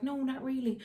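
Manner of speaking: retold reluctant reply. Reenacts sheepish reply to counsellor.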